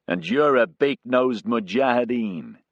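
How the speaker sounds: gruff joking jab; mild growl. Acted. Pilot Casey jabbing back at Abdikadir, mock gruff. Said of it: "Casey growled back".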